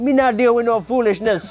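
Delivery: put-on Jamaican accent. Imitating their Jamaican grandmother telling them off, in a Jamaican accent. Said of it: "It's a great accent, the Jamaican accent".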